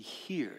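hear held and dropped, falling; stress on hear. Shown as a demonstration. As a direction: lean on the word hear with a falling tune. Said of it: "emphasis on the word hear".

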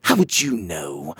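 low, hissed through gritted teeth. Acted. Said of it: "the queen said through gritted teeth".

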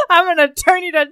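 exaggerated Cockney, cracking up at the end; hammed-up Cockney. Showing off accents as an urchin threat, laughing Cockney. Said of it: "start speaking a lot of Cockney".

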